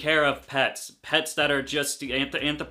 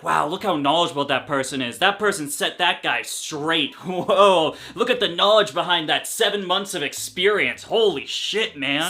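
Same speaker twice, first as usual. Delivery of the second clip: mock admirer; 4 dB louder than usual. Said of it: "there are people like".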